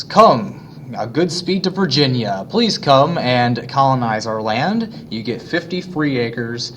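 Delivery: a hammed-up sales pitch read slowly; mock advertisement. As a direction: sell Virginia like an old poster. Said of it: "here's some advertisements".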